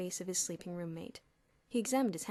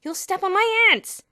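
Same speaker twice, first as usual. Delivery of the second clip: firm warning; 11 semitones higher, 15 dB louder than usual. A narrator's reading. Bruno scolds Elmer.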